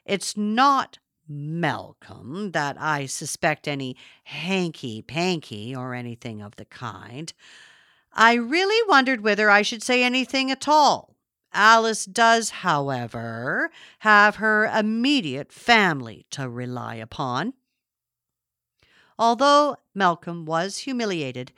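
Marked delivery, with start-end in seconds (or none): 0.0-3.7 slow, lean on Malcolm; stress on Malcolm. Acted. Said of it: "dwelling emphatically upon his name". 3.7-17.5 a hint of a prim, superior tone; lightly voiced, sanctimonious lecture to Malcolm; patronizing, sanctimonious. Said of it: "In her most patronizing and sanctimonious tones".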